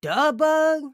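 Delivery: name said in high, loud, silly voices; playful variations. Shown as a demonstration. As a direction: toss the name out in different funny ways. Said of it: "it doesn't matter which way you say it".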